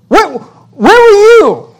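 high, slow, drawn-out divine demand; God's booming challenge. Retold or imitated. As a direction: stretch it out like God confronting Job. God questioning Job, acted.

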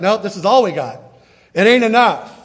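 a disciple shrugging it off; resigned disciple. Retold or imitated. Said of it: "it's like".

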